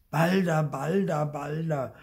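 put-on high, loud child's complaint that fades each time; mock exasperated little boy, winding down; scolding, fading. Theo complaining to his parents, exasperated then fading. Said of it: "schimpft Theo".

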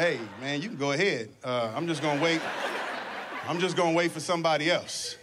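next person in line letting others go first, low and wary. Retold or imitated. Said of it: "look at the next person like".

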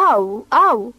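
startled ouch, waking up; a short yelped ouch, half asleep; cry of pain. A narrator's reading. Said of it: "țipă Bodar". (țipăt scurt de durere, trezit din somn)

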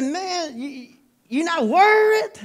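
high, frantic disbelief; panicking man. Acted. Stranded shipwrecked man panicking at his calm friend, high and frantic. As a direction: pitch it up like a man losing his nerve. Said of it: "started crying and shouting and panicking".

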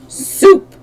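high, loud one-word shout. A narrator's reading. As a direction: shout it as one gleeful chorus. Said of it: "they all shouted".

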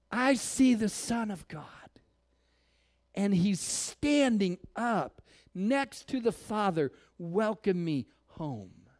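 hushed, slow, wondering whisper; awed whisper. Acted. Stoned Stephen whispering to the crowd, awed and hushed. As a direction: breathe it out like a dying man seeing heaven. Dying Stephen sees heaven.

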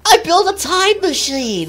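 high, loud nasal nerd boast; hammed-up squeaky nerd announcement; Bentley. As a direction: proclaim it like a cartoon geek. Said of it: "I can do a pretty good Bentley".

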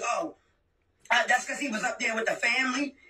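sneering low parody of the sister's excuse; mocking sneer. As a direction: mimic her lame excuse with a dismissive low "Oh". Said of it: "that's all you can say is".

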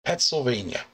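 "Pennsylvania" turned into Pet-sylvania; first syllable of "Pennsylvania" said as "pets"; punning pronunciation. Shown as a demonstration. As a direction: say "Pennsylvania" with Pets in place of Penn. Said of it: "like P E T".

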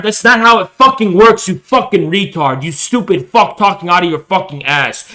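usual speaking voice

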